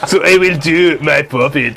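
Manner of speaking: put-on French accent. Card forfeit makes player talk this way, mock French accent. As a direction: play it as a comic Frenchman speaking English.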